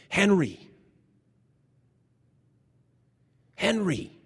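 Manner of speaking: God calling Henry from the burning bush, loud. Retold or imitated. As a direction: call him from afar.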